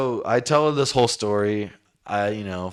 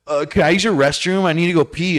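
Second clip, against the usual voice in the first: mocking her voice; 8 semitones higher, 5 dB louder, faster than usual. Ex-girlfriend asks for restroom.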